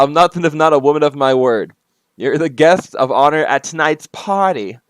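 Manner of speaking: a hint of hostess villainess; lightly voiced Harley Quinn. Harley addressing her guest of honor, lightly voiced character. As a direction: play up the party host a little. Reads Harley's letter in role.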